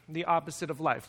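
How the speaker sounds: soft, low echo of the title; quiet repeat. Shown as a demonstration. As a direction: repeat it softly, letting it land. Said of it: "I've entitled this message".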